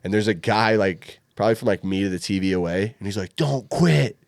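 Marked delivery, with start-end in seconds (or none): 3.4-4.2 raised mock yell from the crowd; imitating heckler yelling. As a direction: heckle him in a put-on voice. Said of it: "like, yelling at me".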